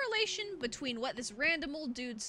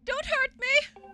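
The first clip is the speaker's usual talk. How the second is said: high, loud hammed-up begging; terrified pleading; 12 semitones higher, 9 dB louder, slower than usual. Gamer voices a victim begging a monster, high frantic cry. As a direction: plead for mercy at the top of the voice.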